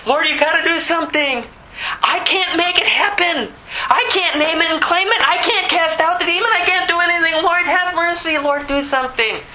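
high-pitched, urgent pleading with God; impassioned cry of helpless need; crying out desperately. Acted. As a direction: beg the Lord to step in. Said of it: "I am crying out in desperate need for Jesus".

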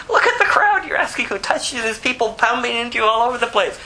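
high, fast mocking disbelief; half-laughing, exasperated retort; incredulous disciples. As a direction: scoff at the question like it's obvious.

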